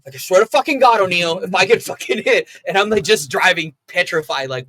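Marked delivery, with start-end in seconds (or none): 0.1-2.5 imitating an angry grumble, raised pitch and volume; retold pissed-off threat. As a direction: replay his angry warning. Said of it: "you were pissed the whole time".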